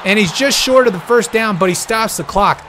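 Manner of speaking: breathless after a frantic call; winded, catching breath between words. Real, not acted. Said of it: "I'm out of breath".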